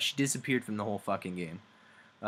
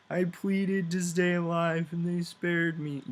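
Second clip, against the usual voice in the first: Vess; 8 semitones higher than usual. Retold or imitated. Voices Vess pleading.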